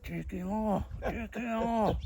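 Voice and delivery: hissing at the bouncer to get him off; urgent stage hiss. Retold or imitated. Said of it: "And I went like".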